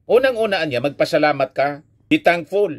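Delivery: high-pitched retelling of a telling-off; mildly indignant, high-pitched mock scolding; retold scolding. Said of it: "pinagsabihan siyang harap-harapan".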